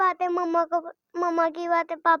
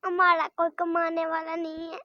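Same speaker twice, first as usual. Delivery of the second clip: words pushed out through real tears; crying while speaking. Real, not acted. Young daughter telling the host no one earns, crying. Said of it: "اچھا رونا نہیں ہے نا میری بیٹا".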